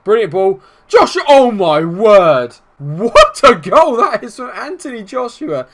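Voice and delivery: a sudden high, loud roar of delight at the goal; goal celebration. Real, not acted. Gamer yelling as his striker scores. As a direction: call the goal like a commentator losing it.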